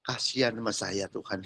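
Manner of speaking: low, hushed little prayer; doa memelas. Acted. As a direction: murmur a humble plea to God. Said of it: "Makanya kalau doa ya". (doa lirih dengan nada rendah)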